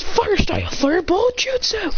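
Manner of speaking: high, stretched technique shout; attack call. Acted. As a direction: announce your fire move at full pitch. Calls out an attack move.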